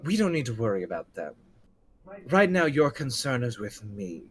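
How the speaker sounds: lightly voiced refined character; composed, cultured reply with a quick start. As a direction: coolly turn their attention to you. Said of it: "the more refined voice goes".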